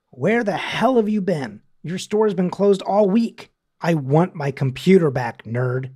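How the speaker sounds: mildly exasperated customer read; annoyed caller. Acted. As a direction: leave an irritated message, acted lightly. Voices angry voicemail caller.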